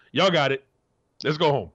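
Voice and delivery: lightly voiced Rex brushing it off; relaxed Rex imitation. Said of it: "Rex was the exact opposite".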